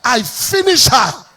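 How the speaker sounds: slow, loud commanding shout; forceful shout. Retold or imitated. Preacher casting out a demon, loud slow shout. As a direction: declare it like casting out a spirit.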